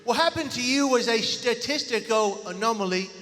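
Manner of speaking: lisping British accent, put on for comedy; David, British accent. Speaker imitates British friend explaining away the miracle, British accent. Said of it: "do my best impersonation of David".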